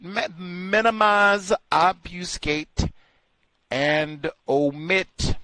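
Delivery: each word drawn out, slowly; Minimize, obfuscate, and omit, slowly, word by word; slow spelled-out list. Shown as a demonstration. Repeating the three words to the audience, slowly. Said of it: "slow repeated list".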